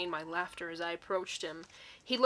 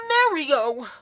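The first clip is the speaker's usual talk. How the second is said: loud hammed-up shout; mock scream; 5 semitones higher, 10 dB louder than usual. Reader yelling a name in the fanfic, loud mock shout. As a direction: call out the name dramatically. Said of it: "I scream".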